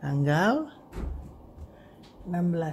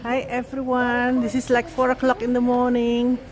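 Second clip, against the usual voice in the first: high, raised-voice hello to viewers; excited greeting; 7 semitones higher, 5 dB louder than usual. Real, not acted. Traveller greeting viewers at four in the morning, excited greeting. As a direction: greet the camera high and loud.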